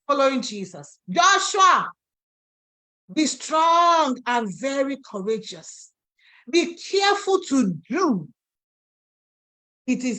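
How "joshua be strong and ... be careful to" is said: calling out. Acted. Preacher calling out God's summons.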